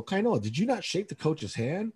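high-pitched reproachful question, rising at the end; imitated parental telling-off; retold scolding question. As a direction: play a dad calling his son out. Father confronts son over handshake.

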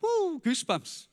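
slow, high, gushing woo; hammed-up goosebumps gush; mock thrill. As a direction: parody the thrill-seeker. Mocking shallow church excitement.

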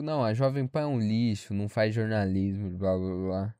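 lightly mocking, sinking into a low blah-blah; dismissive mimicry. Classmates trashing Jovem Pan, dismissive mimicry. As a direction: parrot their complaint, pitch dropping.

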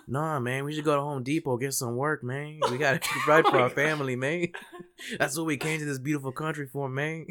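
put-on high, loud stereotyped Latino accent; exaggerated Latino accent. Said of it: "do that accent".

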